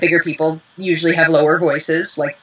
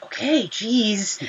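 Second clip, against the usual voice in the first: exasperated give-in; 3 semitones higher, 7 dB quieter, much slower than usual. Retold or imitated. Director giving in, exasperated.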